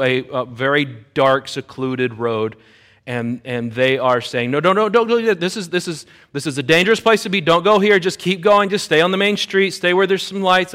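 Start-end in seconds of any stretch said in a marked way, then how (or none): 4.5-10.7 anxious pleading. Retold or imitated. Retold passengers pleading to turn back.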